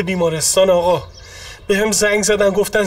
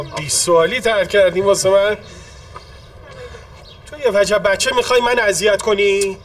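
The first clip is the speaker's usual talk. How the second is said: indignant, raised-voice protest; angry; 3 dB louder than usual. Acted. Accused claimant snapping at the young questioner, angry. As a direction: push back angrily at being questioned.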